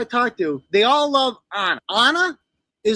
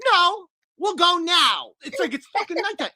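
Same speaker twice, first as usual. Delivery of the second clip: mock Anna; 5 semitones higher than usual. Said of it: "And she goes".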